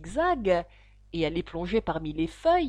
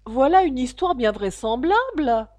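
contemptuous; 3 semitones higher, 7 dB louder than usual. Acted. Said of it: "d'un air de profond mépris".

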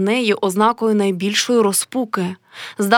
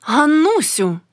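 higher-pitched, coolly curt question; cold; 6 semitones higher, slower than usual. A narrator's reading. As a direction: ask with a touch of coldness. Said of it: "спитала холодно". (холодне запитання)

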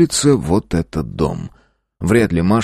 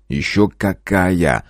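Bruce Willis voice; much slower than usual. Retold or imitated. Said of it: "Голосом Брюса Уиллиса".

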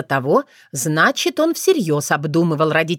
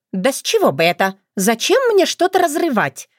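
mock surprise; 6 semitones higher than usual. A narrator's reading. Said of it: "картинно удивилась Крылана".

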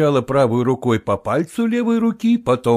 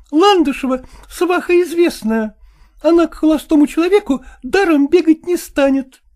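high, reproachful woman's voice; jealous wife; 4 dB louder than usual. A narrator's reading. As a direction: accuse him in a high woman's voice. (высокий упрёк ревнивой жены)

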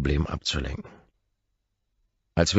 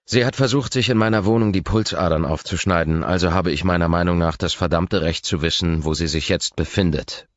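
louder, pressed through gritted teeth; 3 semitones higher, 5 dB louder than usual. Acted. Man demanding answers from the nurse, through gritted teeth. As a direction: force it out through clenched teeth. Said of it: "stoße ich zwischen zusammengepressten Zähnen hervor".

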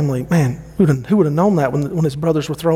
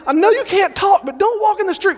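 exasperated shout. Retold or imitated. Dad yelling again at toddler Carson, exasperated. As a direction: shout it like a frantic parent. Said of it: "And I'm like, I'm like".

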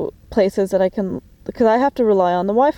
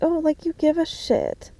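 high, quieter mock-sweet sarcasm; sarcastic retort; 7 semitones higher, 4 dB quieter than usual. Firing back at the kid's fake concern, sarcastic. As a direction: sneer it in a falsely sweet high voice.

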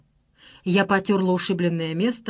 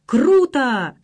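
put-on loud drunken whoop; rowdy cheer; 5 semitones higher, 5 dB louder than usual. A narrator's reading. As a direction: cheer like tipsy lads. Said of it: "заголосили подвыпившие ребята". (пьяный восторженный выкрик)

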